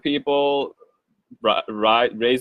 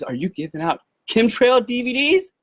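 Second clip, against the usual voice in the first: much higher, eager question; excited mom; 13 semitones higher than usual. Retold or imitated. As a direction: blurt it out, thrilled. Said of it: "she was so excited".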